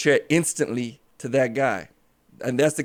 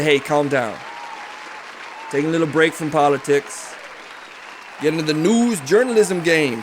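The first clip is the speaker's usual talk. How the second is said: Ralph Munchcut voice; 2 semitones higher than usual. Acted. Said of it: "It's Ralph Munchcut".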